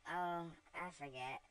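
gently apologetic, a touch sad. Acted. Eva realizes her mistake, a little sadly. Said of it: "said Eva sadly".

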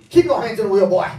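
Southern cop. Acted. Hypnotist playing the Southern cop, loud Southern accent. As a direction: bark it like a Southern sheriff. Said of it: "he speaks in a southern accent".

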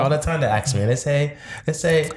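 put-on London accent; lightly mock a London accent; fake London accent. Co-host explaining what people ask, fake London accent. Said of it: "didn't realize he was gonna talk like this".

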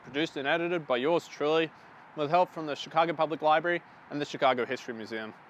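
talking while chewing; words round a mouthful of candy; mouth full. Real, not acted. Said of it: "my mum did tell me not to speak with my mouth full".

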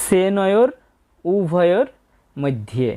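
"সেনয়োর" opening on a clear hissed s; crisp S demonstration. Shown as a demonstration. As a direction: say "সেনয়োর উভয়র মধ্যে" word by word, with a dental s. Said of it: "দন্তস্বর উচ্চারণটা ছয়ের মতো হয়েছে".

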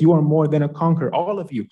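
fast and loud, preaching it out; rousing declaration. Real, not acted. Preacher lifting up his listeners, fast and loud. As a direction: proclaim it like a rallying cry.

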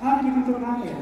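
soft put-on student voice; playful imitation of a student's question; different questioner's voice. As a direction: mimic another questioner, quietly. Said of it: "I remember all of you is in different voices".

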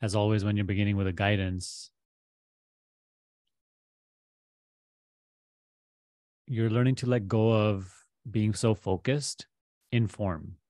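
measured guidance with long pauses; guided meditation. Real, not acted. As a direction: guide the listener gently into letting go, pausing between phrases.

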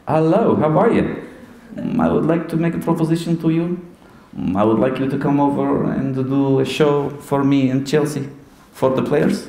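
put-on manager voice making a formal offer; imitated accented caller, level and deliberate; Jose Mourinho. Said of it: "This is me, Jose Mourinho".

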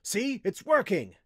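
loud, high, drawn-out excitement; excited exclamation. A narrator's reading. Wizard seeing his experiment succeed, excitedly. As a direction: crow that it works. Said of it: "Noraim exclaimed excitedly".

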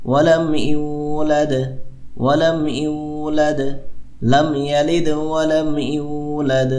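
slow recitation with a bouncing দ at the end of ইউলাদ; teacher recites the verse, bouncing each দ; qalqala recitation. Shown as a demonstration. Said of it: "কলকলা".

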